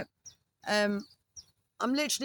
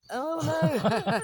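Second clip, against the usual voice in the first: surprised; 7 semitones higher, 5 dB louder than usual. Real, not acted. Partner says arm hair singeing.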